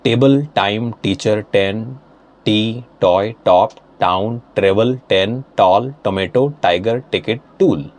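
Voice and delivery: brisk run-through of T words; quick word-list read. Shown as a demonstration. Teacher reading all the vocabulary in one go, briskly. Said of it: "read all these vocabulary in one go".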